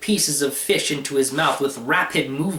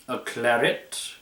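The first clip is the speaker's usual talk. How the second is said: rude; 2 semitones lower, 4 dB quieter than usual. Acted. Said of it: "rather rudely".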